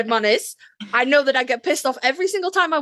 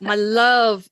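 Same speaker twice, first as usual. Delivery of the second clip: swooning; much slower than usual. Real, not acted. Gushing over favorite episode.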